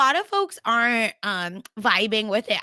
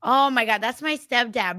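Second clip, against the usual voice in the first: ordinary talk, nothing marked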